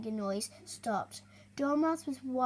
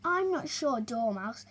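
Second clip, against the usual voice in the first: doubtful. Acted. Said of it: "said a field mouse doubtfully".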